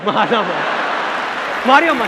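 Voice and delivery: mock bystander. Onlooker at a red light fight eggs them on, excited. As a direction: hype up the fight while pretending to stop it.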